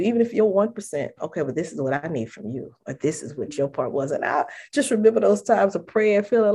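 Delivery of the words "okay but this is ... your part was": lower, softer, patient correction; gentle Lord. Pretend. The Lord speaking gently to a praying believer, soft and patient. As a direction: gently show them their part. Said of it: "the Lord will work on your heart".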